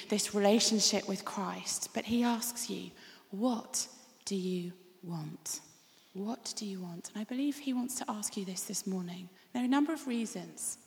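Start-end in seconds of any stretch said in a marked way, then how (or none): 3.3-7.1 slow, soft, breathy whisper; whispered question. Acted. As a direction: lean in and whisper it. Jesus' question softly repeated.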